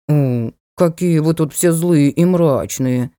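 slow, hurt pouting whine; pouty dark lord. Acted. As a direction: pout it out like a spoiled boy. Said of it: "Лорд обиженно надул губы".

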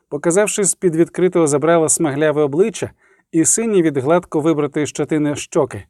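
ordinary delivery, nothing marked

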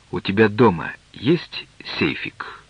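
hushed, slow secretive whisper. Acted. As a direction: whisper it so the driver can't hear. Secret question in the taxi.

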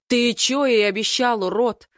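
high, harsh snarl of rage; snarling growl. Acted. The brother snarls at Den, demanding answers: furious snarl. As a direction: bark it at him, seething. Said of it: "не своим голосом рычит брат".

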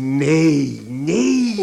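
a husband loudly forbidding his wife to see their son; forceful refusal. Acted. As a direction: shut her down hard. Father forbids mother seeing son.

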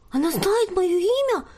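high, astonished question; amazed. A narrator's reading. Shy girl amazed the spirit knows her name. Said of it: "изумилась тихоня Сесиль".

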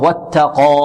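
thin ت then dark, full ق in واتقى; light ta, heavy qaf. Shown as a demonstration. Teacher models the rule just stated, light ta and heavy qaf. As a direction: keep the t of واتقى light and thicken the qa. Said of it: "والتاء مرقة والقاف".

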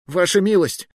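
high, loud pleading yell; shouting. Acted. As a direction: yell after him while dragged off. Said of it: "кричал я".

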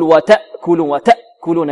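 وتأكلون with an over-forced, gagging hamza; retching hamza. Shown as a demonstration. Tajweed teacher imitates a reciter's faulty hamza, retching وتأكلون. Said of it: "كالمتهوع، يقول".

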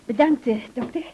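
a laugh bursts into the thanks. Acted. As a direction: thank him through a nervous laugh. Patient thanks doctor with a laugh. (lachend bedanken)

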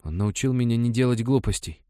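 a changed, gritted-out reply; boy answering coldly through his teeth; strange voice. A narrator's reading. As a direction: grind it out in a voice not his own. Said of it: "чужим голосом процедил".

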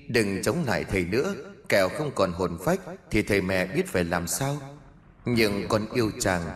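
soft, frail pleading; weak voice. Acted. Ghost mother pleading faintly with the master, a weak soft voice. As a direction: beg softly, voice barely carrying. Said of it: "một giọng nói yếu ớt vang lên".

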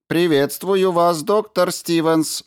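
high, measured, slow robot voice; polite robot. A narrator's reading. Robot Ram greets the injured doctor, high and slow. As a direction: greet him like a courteous machine.

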